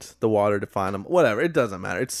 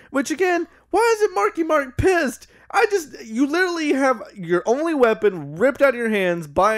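high-pitched incredulous rant; exasperated; 9 semitones higher than usual. Real, not acted. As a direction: squeal it in disbelief. Exasperated rant about Marky Mark.

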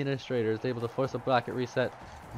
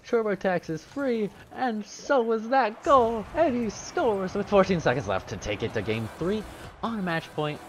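excited caster call; 9 semitones higher than usual. Real, not acted. Hyped caster call with sponsor line.

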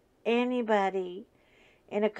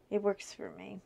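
whisper; 6 dB quieter than usual. Real, not acted. Aside to viewers.

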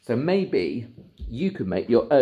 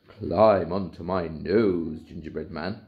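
deep bubbly hippo; 3 semitones lower, slower than usual. Acted. Hippo speaks.

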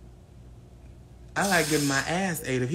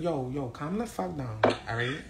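put-on New York accent. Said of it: "I do a New York accent".

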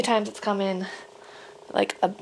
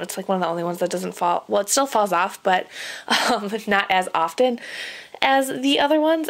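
out of breath, shallow breathing; talking while out of breath. Real, not acted. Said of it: "I'm sorry, I'm out of breath".

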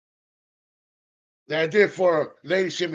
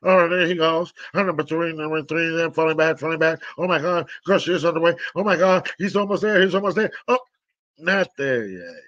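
lightly done race caller, rising to excitement; horse race announcer; 2 semitones lower than usual. Pretend. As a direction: call the race, building up. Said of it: "I said it like a horse or announcer".

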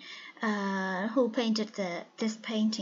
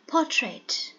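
Portrait with the weight on the first syllable; first-syllable stress; 3 semitones higher than usual. Shown as a demonstration. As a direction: model the word Portrait, stressing its opening syllable. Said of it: "the first syllable is stressed".

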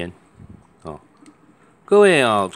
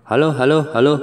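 高声大喊hello; 上扬地连喊hello试音; 试麦喊hello; 7 semitones higher, 7 dB louder than usual. Shown as a demonstration. 试麦克风喊hello. (大声喊hello试麦)

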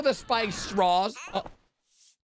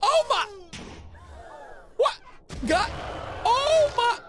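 shocked cry; slower than usual. Real, not acted. Shocked reaction.

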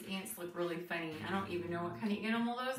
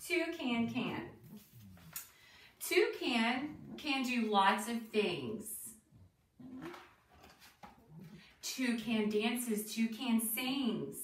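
slow, measured picture-book reading; reading to children; slower than usual. Acted. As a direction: read the rhyme out slowly for small children.

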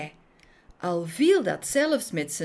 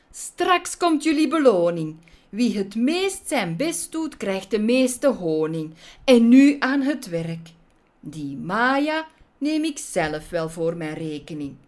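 bossy villain wasp voice, loud on the order; a sly wasp boss driving on his gang; scheming wasp boss; 3 semitones higher, 4 dB louder than usual. Acted.

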